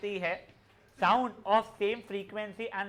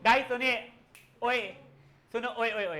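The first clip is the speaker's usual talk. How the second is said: calling out; 3 semitones higher, 5 dB louder than usual. Real, not acted. Teacher calling noisy class to attention.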